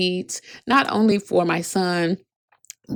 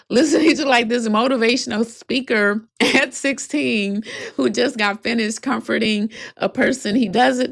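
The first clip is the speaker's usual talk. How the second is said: laughing through tears; 4 semitones higher than usual. Real, not acted. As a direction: laugh it out, touched and amazed. Moved, laughing at son's wisdom.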